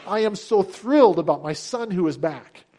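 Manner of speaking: delighted father announcing good news; thrilled proclamation. Retold or imitated. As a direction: proclaim it to everybody as a proud father. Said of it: "The father is proclaiming to everybody".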